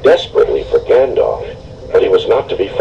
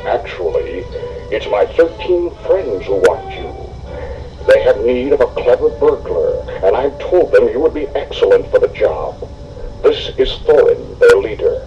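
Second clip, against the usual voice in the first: softer, lightly voiced wizard; a hint of a gentle old wizard explaining; 4 dB quieter than usual. Gandalf voiced by narrator.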